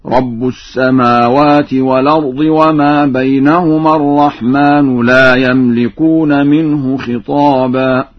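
slow recitation, رب ending in -u and الرحمن in -u; nominative endings. Shown as a demonstration. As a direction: recite rabbu for رب, ar-rahmanu for الرحمن. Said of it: "ورفع النون في لفظ الرحمن هكذا".

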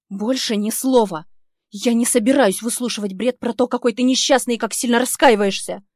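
громко и выше, с напором; не дать ему и слова вставить; гневная отповедь. Acted. Героиня кричит в гневе. (героиня громко отчитывает бывшего)

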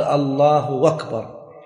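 أكبر said as "wakbar" after الله; hamza as waw. Shown as a demonstration. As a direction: glide from الله into أكبر with a w for the glottal stop. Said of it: "بعض الناس لا يحقق الهمزة". (قلب همزة أكبر واوا)

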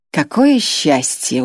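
slow, mock-delighted; smirking. Grois mocks Irma's frankness with a smirk. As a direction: savour the irony with a grin. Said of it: "ухмыльнулся Гройс".

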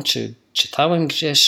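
ordinary delivery

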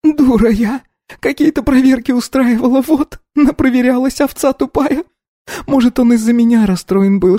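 high, tearful cries of guilt; sobbing self-reproach. A narrator's reading. Polina blames herself for Pasha's death, sobbing. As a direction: berate yourself between sobs. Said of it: "рыдая".

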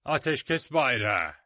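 loud, slow call; shout. A narrator's reading. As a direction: Silver calls the truce across the fence. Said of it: "diye bağırdı Silver". (bağırarak)

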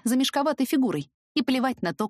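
plain reading voice

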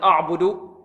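أعبد with a thick, backed a; wrong heavy hamza. Shown as a demonstration. Teacher imitates some readers' mistake, heavy hamza. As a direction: open أعبد on a heavy vowel. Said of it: "البعض ربما يفخم الهمزة هنا".

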